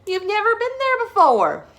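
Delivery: high, loud chuckling reply. Acted. Father chuckling at Sarah's fear, high. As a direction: laugh it off lightly. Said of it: "Mister Hartwell chuckled".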